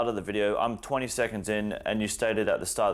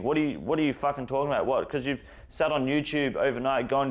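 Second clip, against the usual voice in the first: higher, heated rant; exasperated rant; 5 semitones higher than usual. Real, not acted. YouTuber ranting at the driver about consent, heated and pitched up. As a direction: vent at him, pitched up, frustrated.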